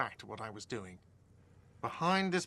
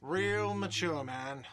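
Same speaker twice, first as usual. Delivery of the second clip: whiny mocking shout; 4 semitones higher, much slower than usual. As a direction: whine it like a sulky guy. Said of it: "a whiny voice shouts".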